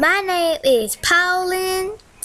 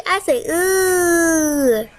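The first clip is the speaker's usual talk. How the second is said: drawn-out ooh; much slower than usual. Shown as a demonstration. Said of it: "Say with me".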